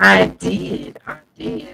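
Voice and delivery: warped, robotic mic distortion; like a voice through a broken mic; alien-sounding mic. Real, not acted. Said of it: "She sound like an alien".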